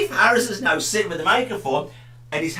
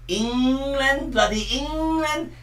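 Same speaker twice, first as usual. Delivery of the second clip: exasperated; 8 semitones higher, much slower than usual. Pretend. Mock exasperated list.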